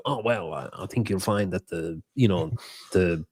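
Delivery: mildly mock an annoying nerd explaining; JR impression. Host mimicking a coach as an annoying nerd, mild JR impression. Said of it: "that was my J R impression".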